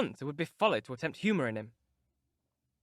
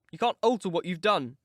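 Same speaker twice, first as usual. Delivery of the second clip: pettish; 2 semitones higher, 5 dB louder than usual. Acted. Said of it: "he replied pettishly".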